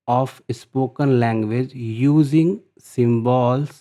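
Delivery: very slow, word by word, like dictating to a class; measured classroom dictation pace. Shown as a demonstration. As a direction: read the definition out slowly so students can copy it. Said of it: "teacher reads definition aloud".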